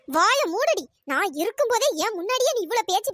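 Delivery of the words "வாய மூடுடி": sharp loud order to shut her mouth; angry shut up. Acted. Mother-in-law silencing Riya with a loud angry order.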